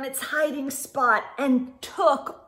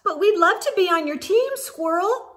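quick, higher and bright offer; brightly; 5 semitones higher, faster than usual. Acted. Rabbit eagerly asking to join Squirrel's team, bright and quick. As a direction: chirp it out eagerly. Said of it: "Rabbit said brightly".

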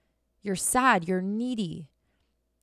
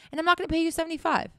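"not" hit higher, pace quickening; emphatic stress on not; 8 semitones higher, faster than usual. Retold or imitated. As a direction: employer firmly refusing to pay seventy-five, emphatic. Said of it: "he's like".

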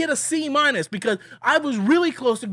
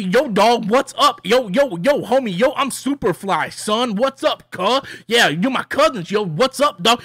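mock slang hype. Reviewer mocking the movie's dialogue for younger audiences, mock slang hype. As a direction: parody a try-hard homie. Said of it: "You know who talk like that".

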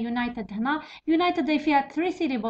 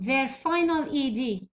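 dictating slowly; much slower than usual. Shown as a demonstration. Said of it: "dictating the exercise".

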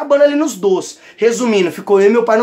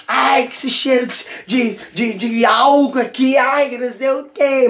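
mock mother complaining; slower than usual. Mother complains about the alcohol smell.

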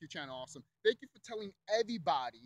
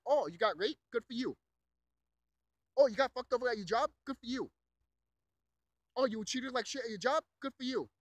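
higher, sarcastic fake congratulations; mock callous congratulation; 4 semitones higher, 3 dB louder than usual. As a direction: imitate someone sneering at a victim. Mocking callous dismissers of victims.

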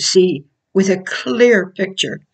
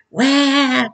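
mock baby wail; 7 semitones higher than usual. Imitating a crying baby.

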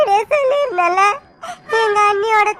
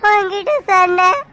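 tearful. Acted. Sandhya tearful about the engagement.

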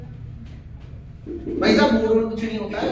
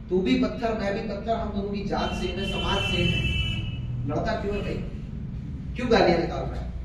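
gentle; 3 semitones lower, 7 dB quieter than usual. A narrator's reading. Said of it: "बड़े प्यार से पूछा".

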